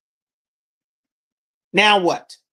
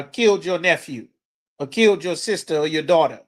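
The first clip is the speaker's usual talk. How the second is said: ordinary delivery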